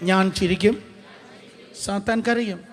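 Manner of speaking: loud call for the congregation to repeat; projected, call-and-response preaching. Shown as a demonstration. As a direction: lead the crowd in a declaration. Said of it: "ശബ്ദമുയർത്തി പറഞ്ഞേ".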